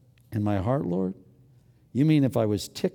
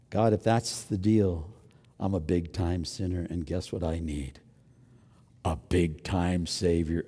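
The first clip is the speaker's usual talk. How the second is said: hushed confession; 10 semitones lower, 6 dB quieter than usual. Retold or imitated. Preacher praying humbly, hushed and lower. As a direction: confess it softly to God.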